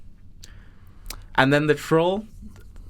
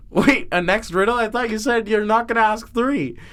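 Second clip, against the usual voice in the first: mock objection; 4 semitones higher than usual. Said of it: "And you go".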